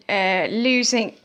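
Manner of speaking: burp while talking. Real, not acted. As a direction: talk through a burp. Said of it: "sorry, I keep burping".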